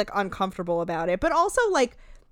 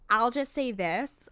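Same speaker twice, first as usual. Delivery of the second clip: put-on slow Chicago accent with flat vowels; slower than usual. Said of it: "thickest Chicago accent".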